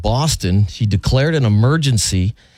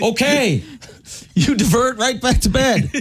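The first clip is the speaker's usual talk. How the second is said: mock air traffic controller; 13 semitones higher than usual. Mock tower reply to sick call.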